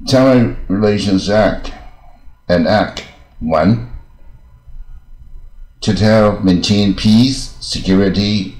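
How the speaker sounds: slow, deliberate reading with breaks between phrases; slow, clear read-aloud. Shown as a demonstration. Teacher reading a law aloud for English learners, slow and clear. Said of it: "我这速度念不要快，以清楚为准嘛".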